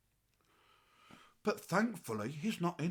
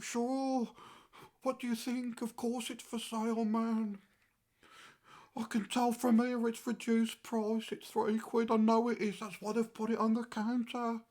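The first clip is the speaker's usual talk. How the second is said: higher-pitched, indignant retort; exasperated sarcasm; 4 semitones higher than usual. Retold or imitated. Impatient shopper reacting to a stupid question, exasperated sarcasm. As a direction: scoff at an obvious question, pitched up.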